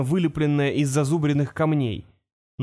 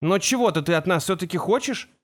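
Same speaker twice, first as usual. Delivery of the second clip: higher-pitched, pointed question; challenging boy; 4 semitones higher than usual. Acted. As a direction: speak up to draw its attention. Кол отвлекает внимание существа на себя.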